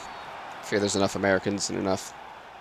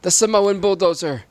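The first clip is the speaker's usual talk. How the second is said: mock commentator call; 10 semitones higher, 4 dB louder than usual. Lightly imitating William the game commentator calling a name. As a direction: ham up the announcer's intro. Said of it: "He goes".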